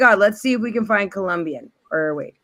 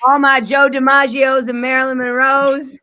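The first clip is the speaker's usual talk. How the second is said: said fast; 7 semitones higher, 8 dB louder than usual. Real, not acted. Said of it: "You said it so fast".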